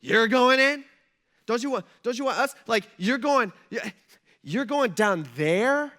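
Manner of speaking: loud, high startled protest; acted stunned angel, voice jumping up; alarmed disbelief. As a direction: halt someone in shock, stumbling over words. Acted angels stunned by God's plan.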